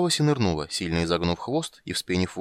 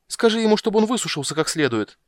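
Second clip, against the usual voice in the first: much higher, louder repeated скажи ему; louder insisting siren; 13 semitones higher, 5 dB louder than usual. Acted.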